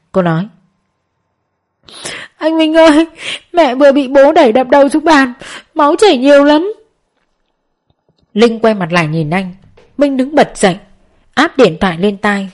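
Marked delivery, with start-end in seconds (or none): 2.4-6.7 high, teary plea over the phone; sobbing out bad news to her brother; tearful sobbing. A narrator's reading. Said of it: "tiếng khóc thút thít của em gái anh". (giọng khóc thút thít, hoảng hốt)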